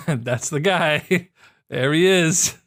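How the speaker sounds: slow, laughing delight. Real, not acted. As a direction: chuckle through it, drawn out.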